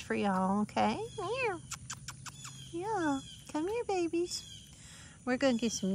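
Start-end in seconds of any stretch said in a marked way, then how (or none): 1.2-4.4 high, sing-song call to the kittens; high coaxing pet voice. Real, not acted. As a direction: coax them in a high sweet voice. Coaxing found kittens over.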